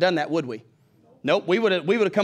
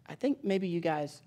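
slow, softer, careful let-down; gone quiet; 6 dB quieter, slower than usual. Retold or imitated. Lady on the phone gently turning the church down, quiet. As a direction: imitate someone quietly easing into bad news. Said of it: "she got real quiet".

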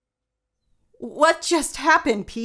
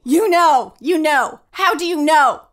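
louder, accusing, pressing him for answers; rising anger; 4 dB louder than usual. Acted. Wife rounds on her husband, demanding an answer. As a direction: demand the truth, getting louder.

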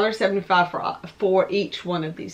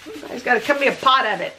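talking to the dog; 3 semitones higher than usual. Real, not acted. Scolds barking dogs.

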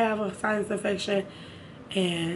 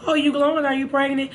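higher, mocking nosy-person voice; mock nosy people; 5 semitones higher than usual. Vlogger mimicking people who ask if she's pregnant, mock nosy voice. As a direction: lightly imitate a busybody's question. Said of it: "'Cause people love to say".

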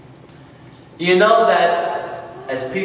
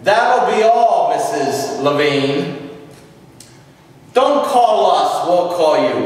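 director dismissing. Retold or imitated. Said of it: "The director said".

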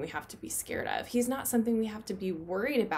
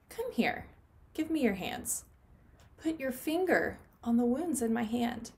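lightly voiced commanding Jesus. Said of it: "Jesus commanded".

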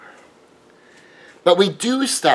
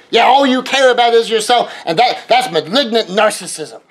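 accusing critic; 5 semitones higher than usual. Acted. Accuser diagnosing narcissism.

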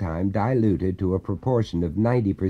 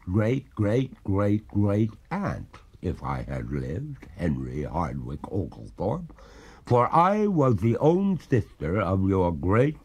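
slow, drawn-out ghostly lament; mournful maiden spirit. Acted. Ghost reveals kinship.

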